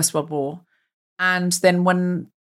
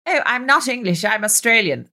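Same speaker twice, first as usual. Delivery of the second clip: mock-whiny echo, pitched up; mocking imitation; 4 semitones higher than usual. Kids teasing her for her accent, mocking imitation. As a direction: mimic them to make fun of the accent. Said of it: "They would mock me for my accent".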